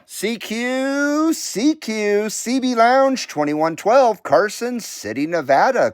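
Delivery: radio call, drawn out and friendly; a lightly put-on friendly radio call; friendly American voice. Shown as a demonstration. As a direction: call the net like a radio operator. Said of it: "my very friendly American voice".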